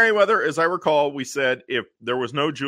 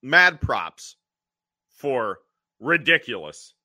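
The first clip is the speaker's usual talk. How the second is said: ordinary delivery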